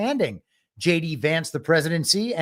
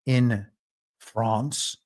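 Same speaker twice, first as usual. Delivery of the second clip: France said the French way, nasal and lightly rolled; a silly put-on French accent on France; mock French accent; 6 semitones lower than usual. Host jokingly saying France with a mock French accent. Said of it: "How many silly ways can I pretend to have a French accent".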